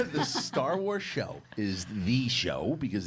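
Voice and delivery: laughing through the words, slow; chuckling while explaining. Real, not acted. Laughs while making his point.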